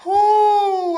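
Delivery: long high-pitched whoo; drawn-out, loud "whoo". Real, not acted. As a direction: blow off discomfort with a high whoo. Discomfort from a burrito.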